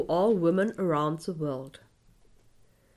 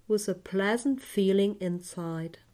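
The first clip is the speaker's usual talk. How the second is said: right in your ear. Acted. Close whisper in meditation.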